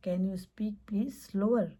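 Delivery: drawn-out, half-whispered request; slow model phrase. Shown as a demonstration. Teacher demonstrating a drawn-out request. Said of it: "slow बोल सकते हैं".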